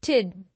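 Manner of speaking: टिड with a firm d at the end; final syllable demo. Shown as a demonstration. Teacher isolating the ending of exhausted. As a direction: land टिड with a hard final d. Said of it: "जैसे last में हम H के साथ डी".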